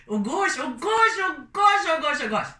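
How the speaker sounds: loud, high delighted exclamations; ecstatic. Real, not acted. Raving about patty taste.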